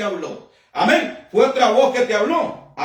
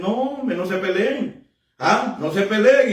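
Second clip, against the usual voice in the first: sweet-talking pastor; 3 semitones lower than usual. Acted. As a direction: gently coax squabbling sheep to make peace. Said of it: "y empieza a endulzarla". (pastor que endulza, con suavidad)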